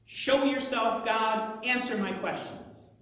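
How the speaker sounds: a touch of acted indignation; defiant challenge. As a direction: call God out, starting high and loud. Job challenging God to appear.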